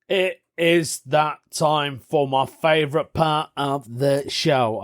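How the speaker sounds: slow, hammed-up announcer build-up; a lightly voiced presenter milking the moment; mock show host voice. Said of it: "I don't even know why I'm talking like that".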